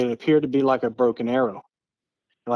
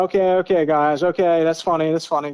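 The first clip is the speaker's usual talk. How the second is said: calling out; 4 semitones higher, 3 dB louder than usual. Retold or imitated. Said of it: "I yell out".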